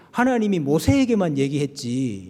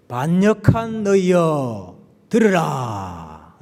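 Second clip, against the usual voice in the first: slow, louder rebuke, each word weighed; stern rebuke; 3 dB louder, much slower than usual. Acted. Moses scolding the grumbling people with a slow, louder rebuke. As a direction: drag it out like a leader scolding the crowd.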